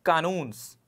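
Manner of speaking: very slow, word by word; unhurried teacher dictation. Shown as a demonstration. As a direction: read the example slowly for students to copy.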